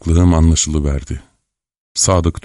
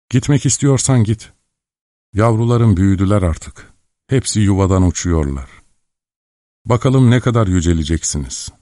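lightly voiced tender mother; gentle sorrow; 4 semitones higher than usual. A narrator's reading. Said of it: "Usulca, yumuşacık bir sesle, kederle konuştu".

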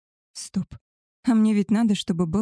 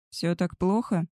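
mildly sceptical question; a touch of disbelief. Acted. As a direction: ask with understated doubt. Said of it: "скептически спросил он".

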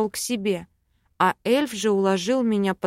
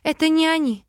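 high urgent exclamation; breathless exclaim; 8 semitones higher, 3 dB louder, faster than usual. A narrator's reading. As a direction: blurt it out on a breath. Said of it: "Выдохнула".

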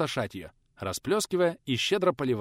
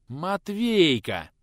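drawn out slowly in realisation; a hint of dawning anger; sudden realisation; 5 semitones higher, 4 dB louder, much slower than usual. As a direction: slowly realise who the culprit is. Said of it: "сразу же сообразил".

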